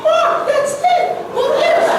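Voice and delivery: put-on high-pitched excited girl; light up with an idea; sudden bright idea.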